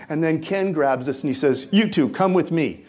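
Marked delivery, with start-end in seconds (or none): 1.7-2.8 louder commanding call; retold urgent order. Ken grabbing the two friends, retold urgent order. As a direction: order them along firmly.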